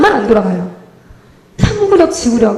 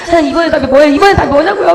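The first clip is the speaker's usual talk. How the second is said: raised, insistent pleading; mock wrangling with God; 4 semitones higher, 4 dB louder than usual. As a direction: press for an answer, half-laughing. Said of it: "제가 하나님하고 씨름하는 거예요". (하나님께 따지듯 조르는 말투)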